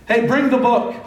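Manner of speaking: loud high call to bring the book; lève la voix comme un roi qui appelle. Retold or imitated. King's call in retold story.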